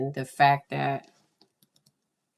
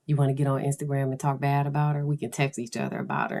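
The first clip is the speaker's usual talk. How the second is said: lightly voiced teen gossip, very fast; quick, casual girlfriend scheming; teenage girl; much faster than usual. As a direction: rattle it off like a conspiring teen. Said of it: "I had to channel my, my teenage girl".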